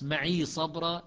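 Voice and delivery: "معي" slow, "maʕi sabra"; Hafs reading. Shown as a demonstration. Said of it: "لحفص".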